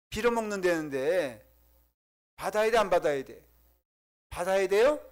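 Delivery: loud, pushed questions to the crowd; preacher's challenge. Real, not acted. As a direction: demand an answer from the congregation. Challenging the congregation, raised voice.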